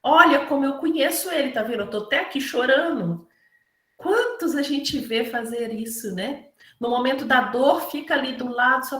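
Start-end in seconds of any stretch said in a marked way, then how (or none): 0.0-3.3 showy fake mourner. Paid mourner boasting of his tears, mocking fake grief. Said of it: "Eles estavam ali para ser vistos".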